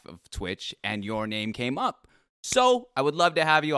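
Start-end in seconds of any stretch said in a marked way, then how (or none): 2.4-3.8 wrestling promo. Acted. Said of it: "Let's cut a promo right now".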